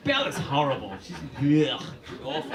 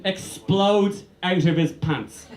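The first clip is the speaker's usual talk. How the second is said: slow motion; slower than usual. Shown as a demonstration. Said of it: "watch it in slow motion".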